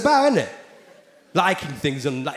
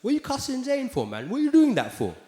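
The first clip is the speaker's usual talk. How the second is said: high, mocking complaint; lightly voiced indignant fans; 9 semitones higher than usual. Fans online complaining about the jokes, mock whine. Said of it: "And people are like".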